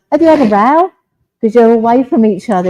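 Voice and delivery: high, loud surprised ask; surprised question. Retold or imitated. Medium relaying son asking dad about a row, high and loud surprised. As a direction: blurt it out, taken aback.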